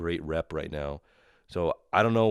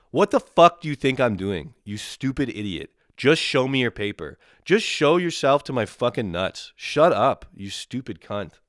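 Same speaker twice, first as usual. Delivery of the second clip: loud, high, outraged tirade; acted furious comeback, punching each phrase; angry rant; 4 semitones higher, 5 dB louder than usual. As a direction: let rip at a pushy official. Ranting back at the agent.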